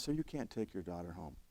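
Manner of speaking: gently and quietly break it to him; kind. Retold or imitated. Deputy to a grieving dad, very kind. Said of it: "Deputy's being very kind".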